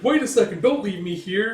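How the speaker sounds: high, loud flustered calling; nervous elf. Acted. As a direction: call after him, flustered. Elf begs not left.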